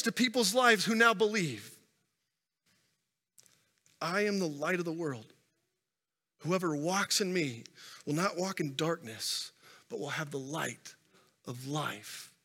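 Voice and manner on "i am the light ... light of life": soft, hushed reading of Jesus' words; solemn scripture quote. Acted. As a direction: let the promise settle gently.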